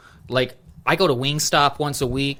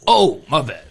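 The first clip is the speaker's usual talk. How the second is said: louder "oh", then apologetic; mock sudden realization; 3 semitones higher, 5 dB louder than usual. Window guy realizing the order is paid, mock surprised. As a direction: imitate a clerk catching his mistake. Retold clerk realizing his mistake.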